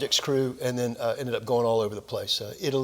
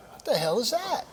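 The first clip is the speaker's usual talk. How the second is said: laughing disbelief; 10 semitones higher than usual. Retold or imitated. Shocked reaction, retold.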